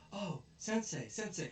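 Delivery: high-pitched cry for teacher; high, hammed-up appeal; mock pleading call. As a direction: imitate kids calling out for rescue. Acted kids calling their teacher.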